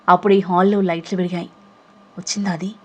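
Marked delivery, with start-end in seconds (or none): 2.2-2.7 hushed, much softer question; conspiratorial hush; whispering. Acted. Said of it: "గుసగుసగా అడుగుతూ".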